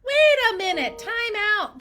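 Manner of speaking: high, loud, stretched-out protest; emphatic halt. Acted. Clinician stopping the nice-and-easy approach, emphatic protest. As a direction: call a sudden time-out. Acted objection to being too nice.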